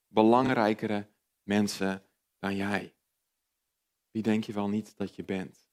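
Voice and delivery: a hint of a scornful voice in the head; belittling inner voice. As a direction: cut yourself down to size. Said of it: "dat stemmetje in mijn hoofd klinkt vaak als het volgende".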